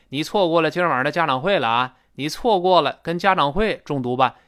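错过 and 家长会 stressed, 今儿晚上 passed over; key words heavy, the time phrase light. Shown as a demonstration. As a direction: lean on 家长会, skim 今儿晚上.

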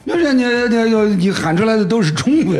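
cracking up while arguing back; real laughter in the voice; laughing. Real, not acted. Joking about Chinese fans shouting.

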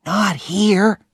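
Tom. Acted. Tom voiced in story.

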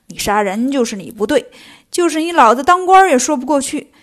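stern master laying down the verdict; scold, building in force to the end; mildly cross, insistent telling-off; nagging reproach. Acted. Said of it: "现在见唐僧絮絮叨叨".

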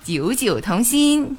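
九九同心 said in Cantonese tones; Cantonese pronunciation. Shown as a demonstration. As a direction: demo 九九同心 in clear Cantonese. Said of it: "示范一遍吧".

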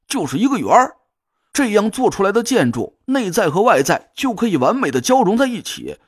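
a lightly voiced eureka cry; excited shout. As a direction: shout out the sudden revelation. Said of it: "突然一声就大叫了起来".

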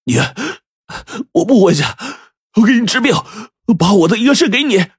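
high, tearful, halting phrases with pauses; slowly, word by word. A narrator's reading. Son offering father his kidney, halting and tearful. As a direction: force it out piece by piece in a high voice. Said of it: "一字一字的慢慢说".

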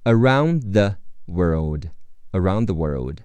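"Around the world" with the d of "around" held and never released; aroun' the world, smooth and connected; unreleased d. Shown as a demonstration. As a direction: drop the burst on the d in "around". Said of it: "around的的会失去爆破，不读出来".

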